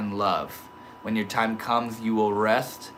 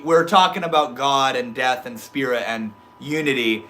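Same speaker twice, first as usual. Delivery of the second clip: ordinary delivery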